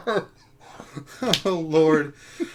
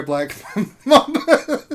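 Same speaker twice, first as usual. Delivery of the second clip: laughing; 6 dB louder, slower than usual. Real, not acted.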